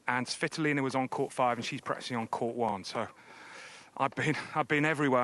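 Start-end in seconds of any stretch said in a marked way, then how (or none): 4.0-5.2 puffing after running around; out of breath. Real, not acted. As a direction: talk while catching breath. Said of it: "I'm a little bit out of breath".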